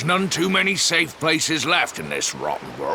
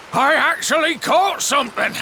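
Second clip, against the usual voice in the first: amazed catch; 11 semitones higher than usual. Acted. Fisherman lands a catch.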